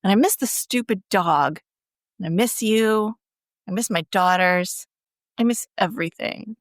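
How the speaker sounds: mildly weary retold lament; stressed out. Podcaster retelling a husband's list of losses, stressed out. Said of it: "stressed out".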